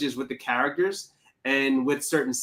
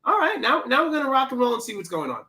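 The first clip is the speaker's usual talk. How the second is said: high, pumped-up anticipation; hyped up; 8 semitones higher, faster than usual. Retold or imitated. Watching the vampire rules unfold, high excited hype. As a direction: get hyped for what's coming. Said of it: "And I was like".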